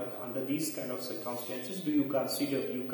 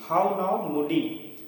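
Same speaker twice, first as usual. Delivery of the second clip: louder, mildly indignant rebuke; mock-scold, a little higher and louder; angry admonishing; 4 semitones higher, 6 dB louder, slower than usual. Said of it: "he is getting angry".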